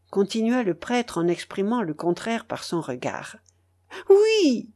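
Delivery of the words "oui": brief answer. Acted. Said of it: "répondit-elle brièvement".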